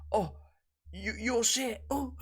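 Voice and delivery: high, timid mock trash talk; nervous Twist impression. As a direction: squeak it out like a nervous kid. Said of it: "Twist looks almost nervous when he says it".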